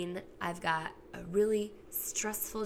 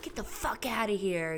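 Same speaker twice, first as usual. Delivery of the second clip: what she'd want to yell; 3 semitones higher than usual. Retold or imitated. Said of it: "and I can't be like".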